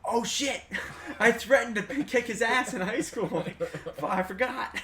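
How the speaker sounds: high, loud words breaking into laughter; laughing realization. Retold or imitated. Telling friends how he remembered his old threat, laughing. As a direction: crack up as the memory hits you.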